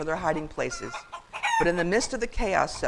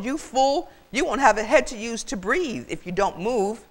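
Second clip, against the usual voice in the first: high, raised furious scolding; swooping, emphatic goose tirade; yelling; 6 semitones higher, 4 dB louder than usual. A narrator's reading. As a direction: berate the fool urgently. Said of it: "Matilda yelled".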